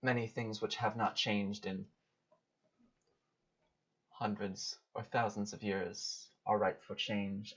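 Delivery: measured, portentous speech with long pauses; solemn goddess. Acted. Goddess warning a mortal of changes to come, solemn.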